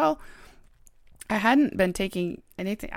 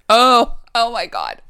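shrieking jackpot winner; 4 semitones higher, 11 dB louder, slower than usual. Real, not acted. Shocked reaction to topic reveal.

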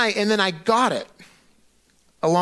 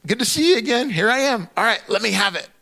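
breezy casual greeting; 4 semitones higher than usual. Retold or imitated. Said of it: "I'm like".

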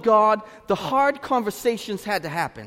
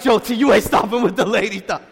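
mock friend, sing-song; 8 dB louder than usual. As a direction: tease him in a half-sung voice. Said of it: "He really was like".

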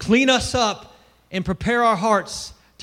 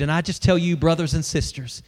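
ordinary delivery

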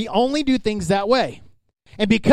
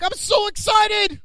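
high, slow mock giddiness; giddy Peter; 12 semitones higher, slower than usual. Peter gushing to Jesus, high mock excitement. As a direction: gush it out like an overjoyed kid. Peter thrilled, mocked by preacher.

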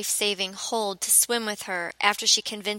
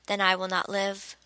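suddenly sober. Acted. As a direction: drop all panic, flat calm. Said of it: "suddenly sober".

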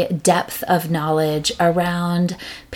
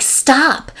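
mock parent stop; 8 semitones higher than usual. Parent snapping at kid.

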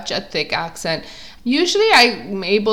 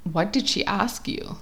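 softer retold aside; murmur in the ear; 8 dB quieter than usual. Sister into my ear at the front desk, softly. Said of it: "in my ear, she's like".

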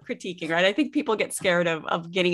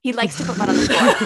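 laughing repeat of her answer, louder; 6 dB louder, faster than usual. Real, not acted. Coach laughingly echoes the mother's answer about the mud. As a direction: chuckle the words back at her. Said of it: "S0 laughs at the repeat".

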